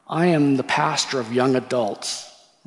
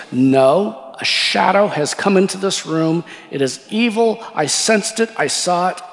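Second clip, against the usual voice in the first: put-on higher-pitched insistent quote of an alarmed girl; acted-out urgent insistence; mock alarm; 4 semitones higher than usual. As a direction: retell her urgent warning with raised pitch. Alarmed girl insists evil is present.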